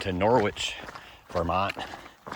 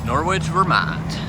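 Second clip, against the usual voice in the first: high, loud, drawn-out town name; triumphant announcement; 8 semitones higher, 6 dB louder, slower than usual. Real, not acted. Hiker arriving in town, slow triumphant call. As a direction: proclaim it slowly, swooping up then down.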